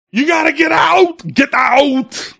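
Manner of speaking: high, loud panicked shout; yelling. Retold or imitated. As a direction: yell at a friend to get out now. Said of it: "I'm yelling at Zum".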